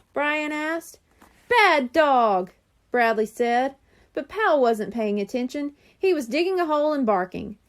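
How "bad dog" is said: louder scold at the dog; a boy scolding his dog. Acted. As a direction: tell the dog off.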